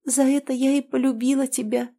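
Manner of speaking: high tearful confession. A narrator's reading. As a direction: say it through tears. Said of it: "всхлипывая, проговорила она". (сквозь слёзы)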